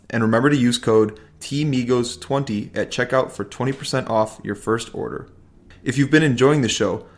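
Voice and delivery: measured scripted podcast outro; sponsor read. Real, not acted. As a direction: read the credits to listeners evenly.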